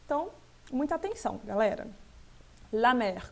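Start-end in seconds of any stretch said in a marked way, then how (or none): 2.7-3.3 La mer with its final French R clearly sounded; pronounced R. Shown as a demonstration. French teacher flagging the capital R for students, R sounded. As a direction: say La mer, landing on the R. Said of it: "eu devo pronunciar".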